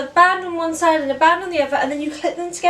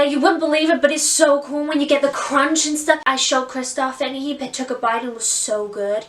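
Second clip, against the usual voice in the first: put-on Anna's American accent. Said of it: "here's how it would go".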